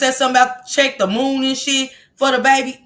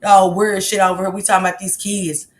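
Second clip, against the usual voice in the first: ordinary delivery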